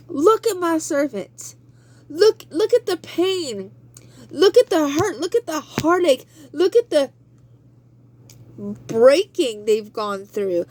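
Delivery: high, rising proud God voice; God bragging. Acted. God points Satan to the faithful, high and proud. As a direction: show off the servant like a proud father.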